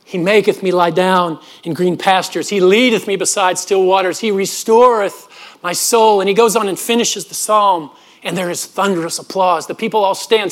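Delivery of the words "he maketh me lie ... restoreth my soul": lightly voiced grand orator, slow and measured; a hint of a resonant stage recital. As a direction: recite the psalm like a renowned orator. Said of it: "this amazing voice that resonated".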